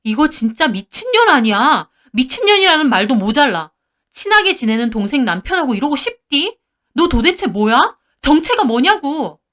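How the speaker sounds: furious berating. Retold or imitated. Wife berating the mistress.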